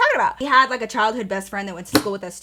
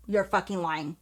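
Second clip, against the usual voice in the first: stunned murmur; 6 semitones lower, 9 dB quieter than usual. Retold or imitated. Stunned, repeats it louder.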